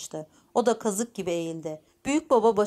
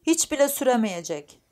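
higher, mildly heated retort; worked-up old woman; 5 semitones higher, 3 dB louder than usual. Acted. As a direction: insist with a touch of temper, lightly acted. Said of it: "Hırslanmıştı yaşlı kadın". (hafifçe hırslanmış yaşlı kadın)

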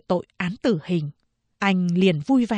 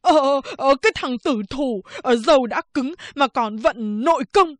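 high, whiny scolding barber voice; cursing barber; 5 semitones higher than usual. Acted. Barber curses the stubborn prisoner, high and whiny. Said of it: "Ông thợ cắt tóc chửi".

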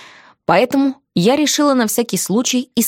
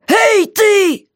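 high, loud call up; mock jailer's yell; 12 semitones higher, 4 dB louder than usual. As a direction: shout up to the prisoner. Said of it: "заорал, как всегда".

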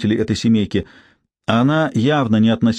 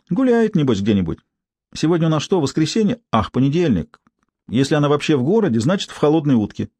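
a hint of a brassy street woman; lightly voiced, higher, mocking gossip; coarse street woman; 4 semitones higher than usual. Tsypka musing.

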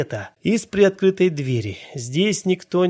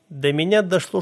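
ordinary delivery, nothing marked

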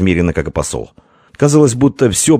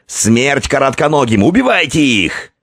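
battle cry; 7 semitones higher than usual. A narrator's reading. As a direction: scream the order.

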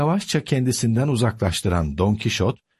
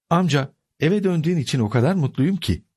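higher, quick, happy niece; beaming happiness; 7 semitones higher, faster than usual. A narrator's reading. Niece welcoming her uncle home, smiling happily. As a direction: say it through a big smile. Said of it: "koca bir tebessümle".

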